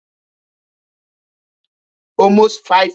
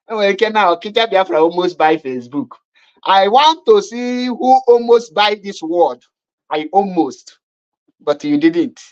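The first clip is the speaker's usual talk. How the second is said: ordinary talk, nothing marked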